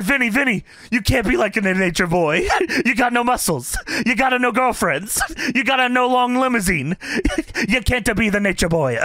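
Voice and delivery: lightly voiced Italian papa, chuckling through it; a hint of a scolding old-world father; put-on papa voice. Co-host voicing Russo's papa scolding him, only lightly done. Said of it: "He's doing this fucking voice".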